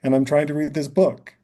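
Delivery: retold child's protest; imitating daughter. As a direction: list it off as the busy daughter, lifted a little. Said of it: "She's like".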